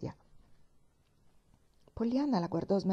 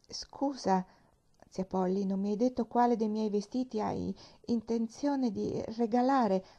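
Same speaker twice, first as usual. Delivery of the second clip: hesitant voice; 3 semitones higher than usual. Acted. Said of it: "una voce un po' insicura".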